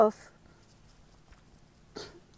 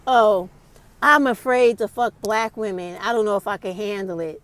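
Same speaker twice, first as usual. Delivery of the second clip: mocking guttural dudes. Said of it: "literally gutturally saying".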